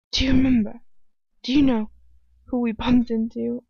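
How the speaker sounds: emphatic questions in a character voice; wrong character's voice. Acted. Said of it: "that is her talking".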